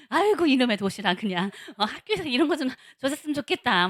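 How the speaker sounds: loud exasperated 아이고 complaint; mother fed up with packing lunchboxes, loud grumble; grumbling mother. Retold or imitated. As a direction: moan loudly like a tired mom packing lunch.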